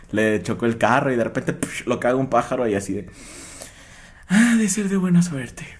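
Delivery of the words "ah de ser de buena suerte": slow, higher cheery reassurance; mock consolation. Mocking a friend consoling a wretched man, slow cheer. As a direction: console him with fake cheer.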